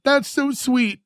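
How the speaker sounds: high, lightly acted tearful voice; mock crying. Wife touched by husband's promise, mock crying. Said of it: "He starts crying again".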